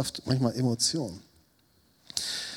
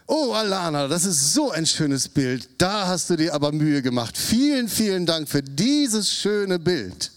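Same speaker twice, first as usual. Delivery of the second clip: fake praise; 4 semitones higher than usual. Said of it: "Ich log".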